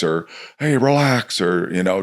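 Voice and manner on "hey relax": high, curt mock order to relax; dismissive coach. Coach snapping at a tense kid to relax, curt. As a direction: toss it off like an impatient coach. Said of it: "instead of just yelling".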